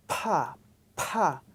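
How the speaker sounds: "Pa" with a held-up air burst; aspirated pa. Shown as a demonstration. Teacher shows how to explode aspirated "Pa". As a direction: build air, then explode "Pa". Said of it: "build up your air in your mouth and explode it".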